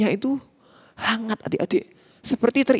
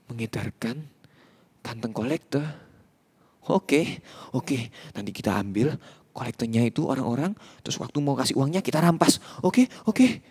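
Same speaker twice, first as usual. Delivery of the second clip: scheming gang boss; 5 semitones lower than usual. Acted. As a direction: mutter the plan like a sneaky thief.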